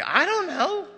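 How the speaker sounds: very high, loud clueless reply; a cartoonish, clueless shrug of a voice; high, puzzled shrug. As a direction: squeak out a baffled I don't know. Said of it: "You would say".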